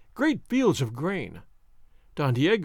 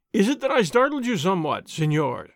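polite thin voice. Acted. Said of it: "Don Diego asked politely, and in a thin voice".

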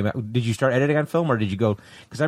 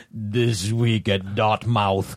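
movie trailer voice; 2 semitones lower, much slower than usual. Retold or imitated. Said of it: "who was doing the fake, uh, trailer voice".

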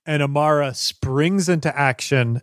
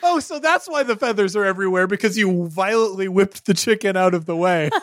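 laughing; 5 semitones higher, faster than usual. Real, not acted. GM laughing while describing.

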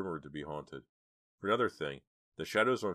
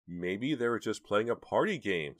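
higher, louder tentative suggestion; unconvinced; 5 semitones higher, 5 dB louder than usual. A narrator's reading. Jade suggests a harmless explanation, unconvinced. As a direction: offer it without believing it. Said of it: "didn't sound as if she believed it".

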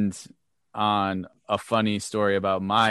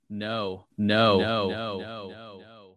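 fading refusals; 3 semitones lower, 5 dB quieter, much slower than usual. Retold or imitated. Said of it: "She's like".

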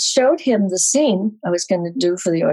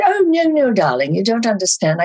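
director voice; 6 semitones higher, 3 dB louder than usual. Retold or imitated.

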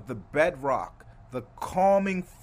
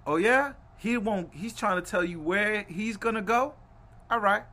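raised, challenging team-owner voice; role-played boss calling a bluff; Joe Tsai; 4 semitones higher, 4 dB louder than usual. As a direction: push back as the boss, higher and punchy. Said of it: "And I'm Joe now again".

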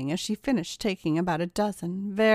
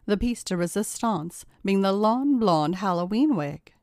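ordinary delivery

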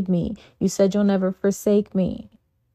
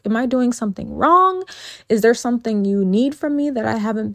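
frustrated pleading prayer; 3 semitones higher than usual. Retold or imitated. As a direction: pour out the frustration, fast and pleading. Acted frustrated prayer to God.

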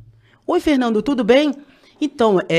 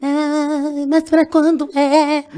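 mock reluctant friend; 6 semitones higher, much slower than usual. Mimicking partner's reluctant question.

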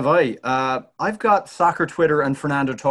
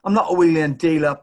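quick, louder mock denial from a football manager; Harry Redknapp impression; 2 semitones higher, 4 dB louder, faster than usual. Answering a reporter's jibe, a quick, louder Redknapp denial. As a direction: fire back fast as Harry, denying it. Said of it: "That was Harry Redknapp".

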